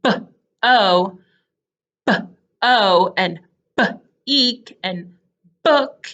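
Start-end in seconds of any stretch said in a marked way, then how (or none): 0.0-4.8 B-O and B-EEK broken after each b; sounded-out B. Shown as a demonstration. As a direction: pause after b, then o or eek. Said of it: "So if you hear the word".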